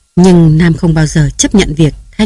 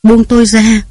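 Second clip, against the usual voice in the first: tearful plea; 5 semitones higher than usual. Acted. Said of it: "khiến Thanh khóc òa".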